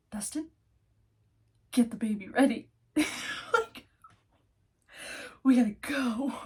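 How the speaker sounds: loud, hurried call to get moving; calling out to hurry up; urgent call. Retold or imitated.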